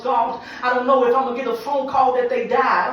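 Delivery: building, preached cry to God; anguished plea. Acted. Parent praying over a child, anguished plea. Voicing a fearful parent's prayer.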